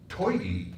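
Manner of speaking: "Toity" with an oy glide; thirty said as "Toity". Shown as a demonstration. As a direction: stretch the oy in "Toity". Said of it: "Toity is O-E".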